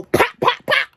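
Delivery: sharp high pops like gunfire; gunshot sounds. Retold or imitated. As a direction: spit out three quick shots. Imitating gunshots at her car.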